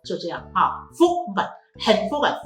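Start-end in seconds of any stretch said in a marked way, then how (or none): 0.9-1.4 风 said high, short and abrupt; short high checked tone on 风; high entering tone. Shown as a demonstration. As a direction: clip 风 off quickly at a high pitch. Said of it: "声音是很高的".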